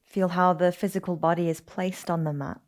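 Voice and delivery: calm, unhurried yoga nidra guidance; guided meditation. Acted. Teacher settling listeners into yoga nidra on their backs, guided meditation. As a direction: ease them into rest, with long pauses between phrases.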